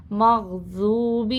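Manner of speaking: مغضوب with a gently released ض; soft zad. Shown as a demonstration. Teacher showing students a soft zad in مغضوب. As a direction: ease into the ض of مغضوب. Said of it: "نرمی سے پڑھنا ہے".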